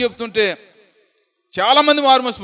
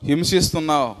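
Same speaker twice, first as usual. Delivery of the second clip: a touch louder calling voice; voice from heaven; 5 dB louder than usual. Acted. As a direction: call out to Saul from above. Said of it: "స్వరం వినప". (ఆకాశవాణి పిలుపు)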